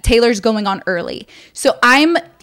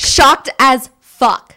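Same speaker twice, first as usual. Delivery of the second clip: shocked; much slower than usual. Real, not acted. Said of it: "reacting to the surprise".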